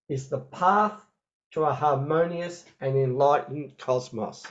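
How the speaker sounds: slow, deliberate dictation pace; dictating. Shown as a demonstration. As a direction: read it slowly so they can write. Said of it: "so I'll get everyone to write this down".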